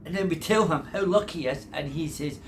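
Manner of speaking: loud mocking repeat. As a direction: mimic him with scorn. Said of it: "Listen to him".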